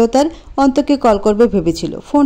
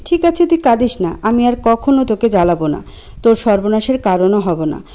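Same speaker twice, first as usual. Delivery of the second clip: bitter, resigned. Acted. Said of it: "বিদ্রূপ সুরে হেসে হেয়ালি গলায় বলল".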